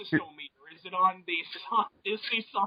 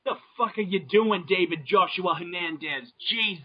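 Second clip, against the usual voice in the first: mock Jersey Shore cursing; Jersey Shore accent. Host berating the late guest, mock Jersey Shore accent. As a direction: curse in a hammed-up Jersey accent. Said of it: "do the Jersey Shore thing".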